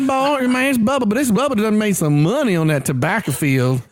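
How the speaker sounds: a lightly voiced rich Southern redneck; mild hammed-up bougie redneck voice. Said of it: "you just created the bougie version for red".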